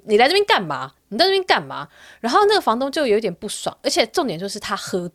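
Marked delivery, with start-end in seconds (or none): 0.0-1.9 rude retort. Retold or imitated. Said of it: "用很不客气的韩文".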